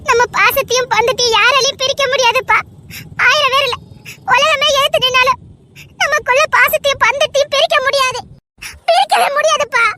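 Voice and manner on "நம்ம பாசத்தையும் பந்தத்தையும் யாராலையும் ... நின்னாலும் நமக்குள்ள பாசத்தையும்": tearful vow. Acted. Daughter tearfully vows to father.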